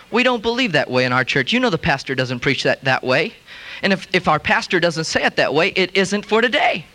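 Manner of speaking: lightly voiced self-righteous churchgoer; disapproving churchgoer. Friends quoting their pastor, smug and disapproving.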